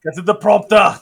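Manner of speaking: mock Austrian accent; Arnold Schwarzenegger. Trading the joke back, Austrian accent. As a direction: play an Austrian action hero. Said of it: "they're like Arnold Schwarzenegger in".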